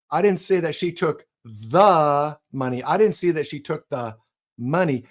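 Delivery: money stressed at the end; money weighted last. Shown as a demonstration. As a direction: land on the word money. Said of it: "emphasize a different word".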